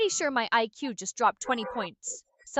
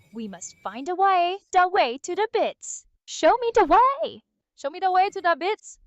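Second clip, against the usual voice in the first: hammed-up meme impression, pitched up; Ugandan Knuckles; 6 semitones higher, 4 dB louder than usual. Assistant performing for bits in a high, hammed-up meme voice. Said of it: "I'll keep doing the Ugandan Knuckles thing".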